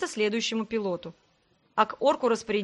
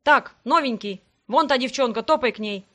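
louder, brusque orc foreman; calling out orders; 5 dB louder than usual. Acted. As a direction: bark the newcomer over to her. Орк-распорядитель командует новичку. (громко, по-хозяйски командуя)

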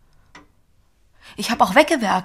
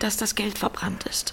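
soft unvoiced whisper; hushed admission; whispered confession; 5 dB quieter than usual. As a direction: whisper the bad news. Confessing the burnt money.

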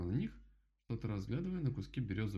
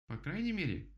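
rabbit calming himself; 10 semitones higher, 3 dB louder than usual. Acted. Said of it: "попытался успокоить себя кролик".

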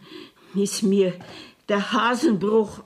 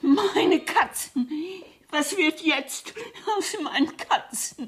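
distraught cry; 5 semitones higher than usual. Acted. Arrested woman frets over cats.

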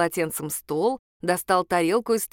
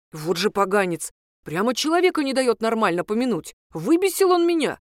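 fuming; 3 semitones higher than usual. Acted. Priest fuming about the ex-husband, angry outburst. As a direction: still furious after the fight.

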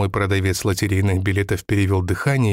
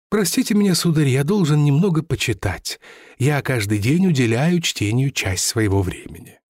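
higher, lightly voiced old seller telling his fall; lightly voiced lottery seller; 4 semitones higher than usual. Lottery seller tells the narrator his family's ruin, lightly voiced and higher. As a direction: recount lost riches with mild bitter pride. Seller excuses himself to read.

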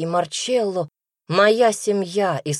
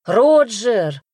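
higher, much louder indignant outcry; indignant exclamation; 5 semitones higher, 8 dB louder than usual. A narrator's reading. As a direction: scold him sharply for the joke. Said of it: "возмущённо воскликнула команда". (возмущённый громкий возглас, выше обычного)

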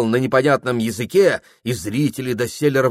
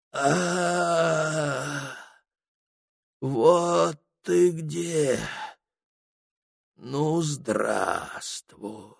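much softer, very slow whisper; faint whisper; 4 semitones higher, 7 dB quieter, much slower than usual. Acted. Dying shaman whispers to a spirit, very soft and slow. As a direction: barely breathe the greeting. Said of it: "Чуть слышен его шёпот".

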